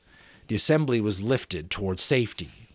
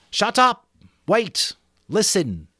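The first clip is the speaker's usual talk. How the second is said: commanding shout; 10 semitones higher, 5 dB louder, slower than usual. Acted. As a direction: cut through the noise. Ralph silences the crowd.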